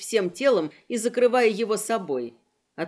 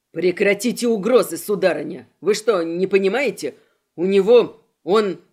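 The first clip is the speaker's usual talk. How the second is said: louder, lower frantic protest; desperate shout; 4 semitones lower, 6 dB louder than usual. Acted. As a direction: cut her off, panicking. Gora shouting back at threats.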